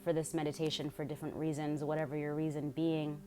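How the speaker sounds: calm, measured meditation guide with long pauses; guided meditation. Real, not acted. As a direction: lead them unhurriedly through breath and focus.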